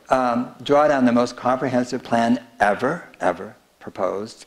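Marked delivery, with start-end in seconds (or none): 2.6-4.4 EVER repeated, the first lifted at the end; stress on EVER. Retold or imitated. Quoting the book title as Katie emphasized it, stress on EVER. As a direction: lean on "ever", then say it once more. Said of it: "Katie emphasized ever".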